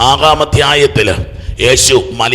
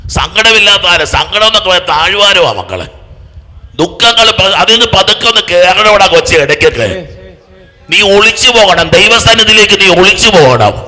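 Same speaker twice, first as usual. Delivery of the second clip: loud, high-pitched sermon climax; impassioned preacher at full volume; full-force preaching; 7 semitones higher, 7 dB louder than usual. Acted. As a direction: preach it out loud, building to a hallelujah. Exhorts congregation forcefully.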